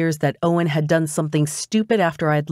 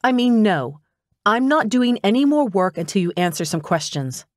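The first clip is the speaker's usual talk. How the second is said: higher, firm demand; insistent; 4 semitones higher than usual. Acted. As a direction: stand your ground and insist. Demanding answers.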